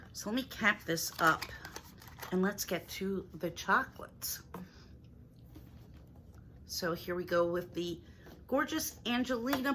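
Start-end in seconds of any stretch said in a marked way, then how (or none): 2.3-4.4 whispering. Real, not acted. Aside before chocolates.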